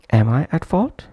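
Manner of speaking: "Am" said fully and strongly, question rising on "fault"; prominent full-form "am". Shown as a demonstration. Teacher demonstrating the full-length form, "Am" pronounced prominently. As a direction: give "Am" its whole vowel, then lift at "fault". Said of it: "that's why pronounced prominently".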